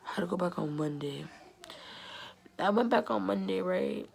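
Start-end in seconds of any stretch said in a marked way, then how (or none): 0.1-1.3 hushed, unvoiced whisper; whispered dread. Real, not acted. Whispering to viewers about dreaded Monday, hushed whisper. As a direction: breathe it out in dread. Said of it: "Oh my gosh".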